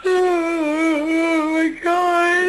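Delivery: high, long drawn-out cry; anguished wail. Acted. Overwhelmed by the quarrel, anguished wail. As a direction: start as a moan and stretch it into a wail. Distraught outburst.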